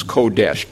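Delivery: Kodesh as KOH-desh, first syllable stressed; careful teacher's Kodesh; Hebrew pronunciation. Shown as a demonstration. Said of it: "that's the way it sounds".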